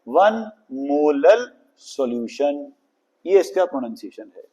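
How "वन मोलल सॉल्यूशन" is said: "वन मोलल सॉल्यूशन" slow and clear; pronunciation demo. Shown as a demonstration. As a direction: pronounce "मोलल" carefully, slowly. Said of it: "इसका pronunciation क्या होता है?". ("वन मोलल सॉल्यूशन" धीरे, साफ़ उच्चारण)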